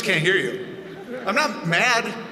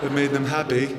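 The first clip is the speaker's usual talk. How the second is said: low, soft, sad British murmur; softly mumbled British accent impression; rock singer impression; 7 semitones lower, 6 dB quieter than usual. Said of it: "he's like".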